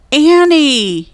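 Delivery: high, loud shout of her name. A narrator's reading. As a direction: yell for her, worried. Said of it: "he called".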